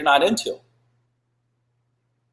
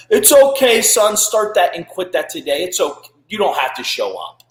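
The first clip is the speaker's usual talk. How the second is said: mock coddling parent; 4 semitones higher than usual. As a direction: sneer at the parent who lets it slide. Mocking permissive parent.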